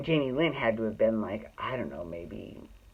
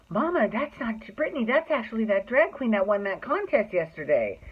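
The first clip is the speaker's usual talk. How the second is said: put-on little girl voice; 5 semitones higher than usual. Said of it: "Jamie Lynn, who had to have been eight".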